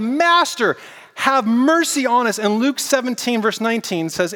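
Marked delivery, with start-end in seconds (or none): 0.0-2.4 mild retold yell. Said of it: "they yelled".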